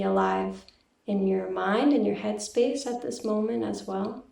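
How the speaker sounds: calm, even meditation guiding with long pauses; guided meditation. Real, not acted. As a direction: gently lead listeners inward, leaving silence between phrases. Leads a meditation.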